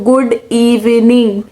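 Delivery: slow, drawn-out "good evening" mocking her own mistake; mocking replay of the blunder. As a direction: stretch "good evening" out, laughing at yourself. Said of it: "मैं सुबह सुबह school के assembly में बोल रही हूँ".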